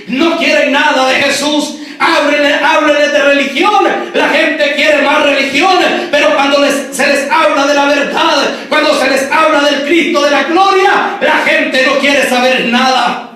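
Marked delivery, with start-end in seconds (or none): 2.0-13.3 forceful, driving preacher delivery; prédica enérgica. Real, not acted. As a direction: preach it out with insistent, ringing conviction. (predicación enérgica y enfática)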